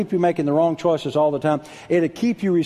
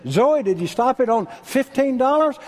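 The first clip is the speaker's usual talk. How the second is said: mother asking daughter; 11 semitones higher, 4 dB louder than usual. Retold or imitated. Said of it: "she said".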